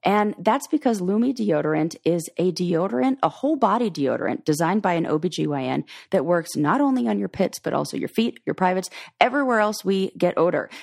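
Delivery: conversational sponsor read; friendly host plugging a product to listeners. Acted. Host reads deodorant sponsor message to listeners, ad read.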